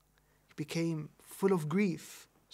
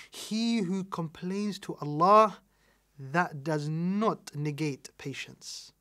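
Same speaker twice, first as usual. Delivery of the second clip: slow, loud, lifted emphasis; emphatic preaching; 6 dB louder, slower than usual. Real, not acted. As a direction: drive the point home slowly. Preacher emphasising key point.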